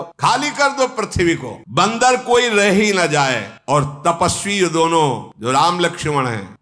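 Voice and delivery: high-pitched acted order, mildly angry; imperious command. Ravan ordering every monkey wiped out, imperious command. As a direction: command it like an enraged king.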